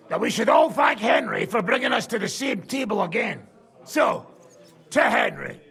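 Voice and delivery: toast shout. Acted. Raising a drunken toast.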